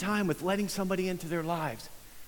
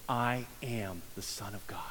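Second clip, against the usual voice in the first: whispered Jesus; 8 semitones lower, 9 dB quieter than usual. Pretend. Preacher voicing Jesus to the healed man, whispered. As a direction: breathe the words like a secret.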